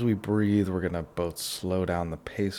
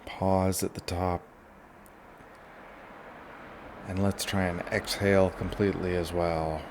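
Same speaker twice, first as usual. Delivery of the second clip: guided relaxation; 6 dB quieter than usual. Shown as a demonstration. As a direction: lead them gently through each breath. Leads a breathing relaxation.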